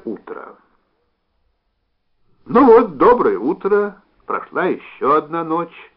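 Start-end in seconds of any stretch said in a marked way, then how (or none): 2.5-5.9 high, loud, cheery trained voice; brisk stage voice. Acted. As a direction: sound like a bright, well-trained actress. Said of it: "бодрым, хорошо поставленным голосом".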